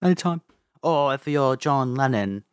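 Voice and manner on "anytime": higher Scouse voice; cheery band-member thank-you; Liverpool accent. Pretend. Band-member voice banter.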